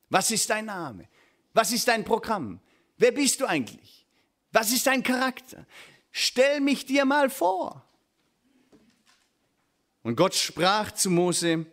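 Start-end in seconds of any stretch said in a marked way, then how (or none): 0.1-7.9 higher-pitched, pressing questions; insistent questioning. Acted. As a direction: press for an introduction, pitch climbing. Acting out people questioning God.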